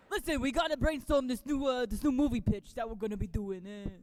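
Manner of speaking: a touch of a slick, smoky producer; lightly voiced pitching smoker; smoker character. Shown as a demonstration. Her smoking character pitching a movie, lightly voiced. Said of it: "impression of someone who smokes".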